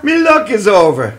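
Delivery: rueful stage Irish lilt; Irish accent. Acted. Gambling leprechaun admits his luck ran out, in Irish accent. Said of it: "I can do an Irish voice".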